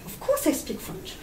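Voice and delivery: put-on speaking English with a French accent. Recruiter quoting herself in English at interview, French-accented. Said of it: "en anglais".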